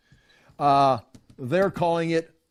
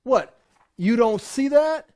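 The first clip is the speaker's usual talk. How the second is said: higher, incredulous challenge; disbelieving rebuke, pitched up; indignant retort; 6 semitones higher, 3 dB louder than usual. Retold or imitated. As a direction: throw the question back at the critics. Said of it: "he's snorting at them".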